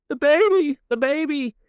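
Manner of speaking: very high hysterical squeal; imitated sobbing wail. Kat screams about the baby, hammed-up sobbing. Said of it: "she is screaming, and she is sobbing".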